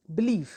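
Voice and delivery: बिलीव with the weight on लीव; stress on second syllable. Shown as a demonstration. Teacher repeats the stressed example, बिलीव stressed on लीव. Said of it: "is said with greater energy".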